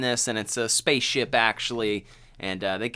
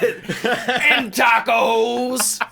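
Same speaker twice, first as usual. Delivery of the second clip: high, slow, giddy "And tacos"; laughing farmer impression; imitating the farmer; 12 semitones higher, 6 dB louder, much slower than usual. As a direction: drag out the old farmer's line with a laugh.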